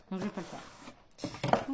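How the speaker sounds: slow whispered aside; slow, whispered "I won't do it". Real, not acted. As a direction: whisper it as a lazy confession. Lazy aside to viewers.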